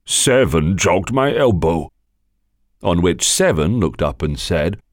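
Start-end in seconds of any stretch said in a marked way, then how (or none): 0.0-1.9 sulky. Acted. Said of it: "in a sulky tone".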